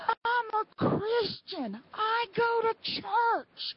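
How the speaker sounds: high, slow mock wail; retold yelling. Angry woman who would not listen, high mock yell. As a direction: stretch each word in a high, indignant imitation of her yelling. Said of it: "she started screaming and yelling at me".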